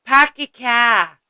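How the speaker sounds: slow, drawn-out Jersey vowels, Park your car without the r; teasing mimic of a Jersey accent. Imitating her friend's Jersey accent back to her. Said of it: "You and that Jersey accent".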